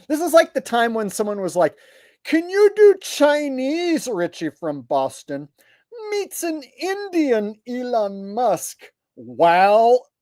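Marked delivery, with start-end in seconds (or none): 2.2-10.1 high, drawn-out requester voice; slow, raised mock-fan voice; mocking imitation. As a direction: stretch it out to mock an absurd request. Mocking an absurd viewer request.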